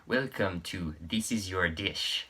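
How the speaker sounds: a mock Italian accent, hammed up. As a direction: put on a campy Italian host accent. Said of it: "ridiculous Italian accent that I might try to imitate".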